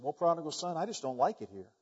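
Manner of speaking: downcast, softly grumbled complaint; low, subdued and mildly sorry for himself; sad little pig. Acted. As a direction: lightly voice a glum little pig. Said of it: "The little pig is sad".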